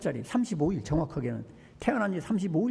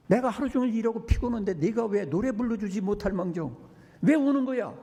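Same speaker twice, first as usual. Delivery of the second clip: mock angry father; 3 semitones higher than usual. Father scolding his crying baby.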